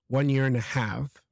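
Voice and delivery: HALF with an audible breathed H at the start; aspirated H. Shown as a demonstration. Teacher showing learner the H he forgot, HALF aspirated. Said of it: "make the aspiration".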